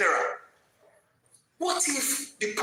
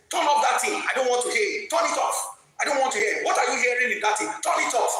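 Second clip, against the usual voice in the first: mock shouting commander; faster than usual. Commander yelling at sergeant to switch it off, mock shout. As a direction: snap at the sergeant to turn it off. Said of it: "is shouting at one sergeant".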